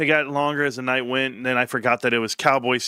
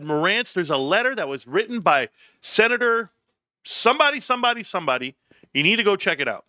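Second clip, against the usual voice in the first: mock commenter; 8 semitones higher than usual. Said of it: "someone said".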